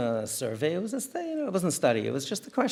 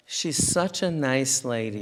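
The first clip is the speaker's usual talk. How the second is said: slow, drawn-out ironic compliment; sarcastic tone; slower than usual. Retold or imitated. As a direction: say it slowly, dripping with irony. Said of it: "You know, with that tone of voice".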